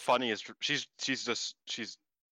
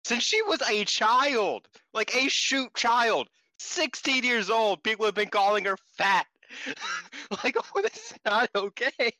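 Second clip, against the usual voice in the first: outraged; 9 semitones higher, 4 dB louder than usual. Real, not acted. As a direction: spell it out in outrage. Outraged about fat-shaming.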